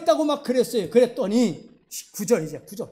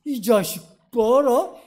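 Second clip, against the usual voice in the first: slow, louder mock-stern father; 무서운 아버지; 5 dB louder, slower than usual. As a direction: draw it out like an angered dad. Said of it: "막 성질을 내는데 아버지가 더 무서워". (성난 아버지처럼 느리고 크게 으르는 연기)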